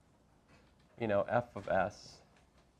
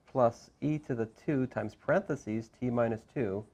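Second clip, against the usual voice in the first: parentheses said with clear weight; each parentheses marked out deliberately; stress on parentheses. Shown as a demonstration. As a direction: lean on the word parentheses so they hear it. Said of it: "I'm emphasizing the word parentheses".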